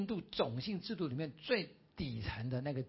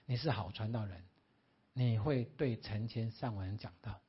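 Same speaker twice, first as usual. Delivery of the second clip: voice of God; 5 semitones lower than usual. Acted. 以神的口吻说话.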